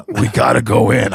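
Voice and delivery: Brian Half. Retold or imitated. Friend insists on going inside, light low impression. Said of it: "he talks like this".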